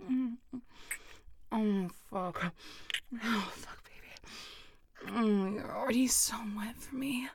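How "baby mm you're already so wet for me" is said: soft breathy unvoiced whisper close to the mic; intimate whisper. Partner being teased gently, in an intimate whisper.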